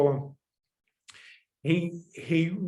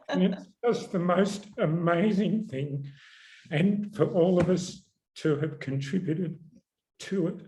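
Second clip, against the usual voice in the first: teary; 2 semitones higher than usual. Real, not acted. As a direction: speak while choking up. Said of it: "I'm getting all teary".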